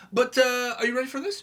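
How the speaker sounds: high, loud hype-up; excited. Real, not acted. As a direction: pump up the audience. Hyping up the video.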